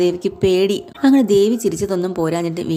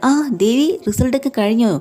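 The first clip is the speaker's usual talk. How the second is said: higher, teasing sneer of a question; mocking question; 5 semitones higher than usual. Husband taunting Devi about her test result, mocking. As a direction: needle her with a sly, high taunt. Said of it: "ഒരുമാതിരി ആക്കി ചോദിക്കുന്നുണ്ട്".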